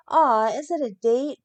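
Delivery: sugary mock-sweet teasing question; sarcastic. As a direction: tease with fake sweetness. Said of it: "Britt asked with sarcasm".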